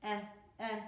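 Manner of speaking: eh, eh, a clipped short vowel; short e sound. Shown as a demonstration. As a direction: repeat the eh for the kids. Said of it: "It's the short E sound".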